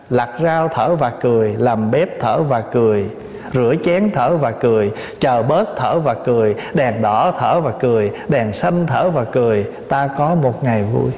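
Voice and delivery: low, even cadence on each line; rhythmic verse recitation. Acted. Teacher listing daily chores as mindfulness verse, rhythmic recitation. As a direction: recite it like a repeating list-poem.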